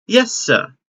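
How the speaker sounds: bright, high, sweet robot nurse; kindly robot caretaker. Acted. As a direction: play a doting robot nanny.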